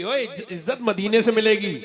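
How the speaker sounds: loud rebuttal of the mistaken belief; emphatic correction. Real, not acted. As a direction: proclaim "इज्जत मदीने से मिलेगी" forcefully as the truth. (ज़ोरदार आवाज़ में सुधार)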